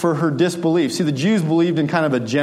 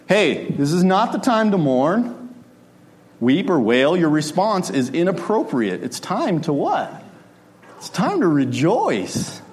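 gentle suggestion; 2 semitones higher, slower than usual. Retold or imitated. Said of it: "gently suggesting".

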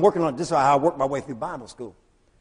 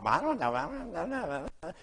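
mocking shrug; 10 dB quieter than usual. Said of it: "they mock".

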